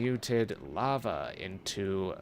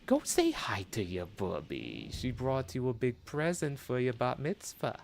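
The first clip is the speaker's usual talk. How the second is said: Jewish grandma voice; 2 semitones higher than usual. Pretend. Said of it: "I've turned Jewish and also slightly Southern".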